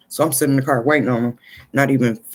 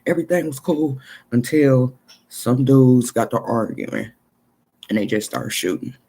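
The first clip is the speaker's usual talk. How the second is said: homeboy's voice. Retold or imitated. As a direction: pitch up as the shaken friend. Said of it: "He was like".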